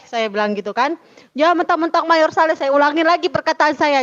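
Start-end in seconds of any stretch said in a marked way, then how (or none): 1.4-2.6 quick, higher-pitched mock scolding; retold telling-off. Wife retelling how she confronted the organisers, mildly scolding. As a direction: re-enact a woman confronting people, mildly heated. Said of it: "kayak ibu-ibu lah kalau lagi ngelabrak orang".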